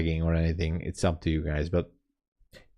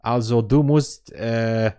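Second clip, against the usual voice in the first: broken German; 3 semitones higher, slower than usual. Retold or imitated. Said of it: "That's how I speak German".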